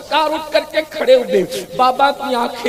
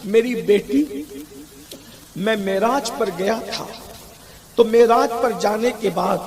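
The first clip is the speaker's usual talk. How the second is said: a lightly lowered, hushed voice of a sorrowing father; the grieving Prophet; 3 semitones lower than usual. Acted. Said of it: "میرے آقا فرماتے ہیں".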